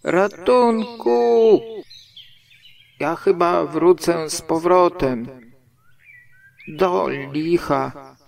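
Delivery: high, loud, drawn-out panicky calls; frantic cry for help. A narrator's reading. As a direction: shout for help while stuck in the hole. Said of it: "krzyknął Puchatek". (wysoki, głośny, spanikowany krzyk o pomoc)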